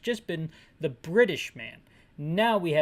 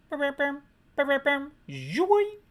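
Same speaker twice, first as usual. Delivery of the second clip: high-pitched sung beeps, rising zoink; imitated call ringtone; 9 semitones higher, 3 dB louder than usual. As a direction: mimic an electronic ringer up high.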